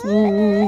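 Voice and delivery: mock whimpering hum; imitated crying. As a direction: hum like someone crying far away. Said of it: "dia nangis".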